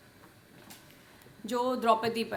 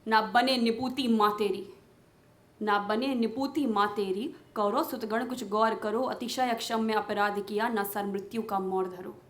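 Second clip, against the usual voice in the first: Draupadi's pleading, questioning verse; impassioned poem recitation. Acted. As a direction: declaim the verse as an indignant appeal.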